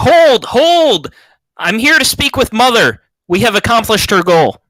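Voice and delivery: high in-character yell, shouting over loud noise. Voicing a character in battle, calling for Mother: in-character yell. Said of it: "I'm yelling".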